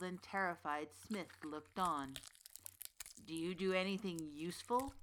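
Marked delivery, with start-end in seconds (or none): 3.3-4.9 growling witch. Acted. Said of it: "she growled".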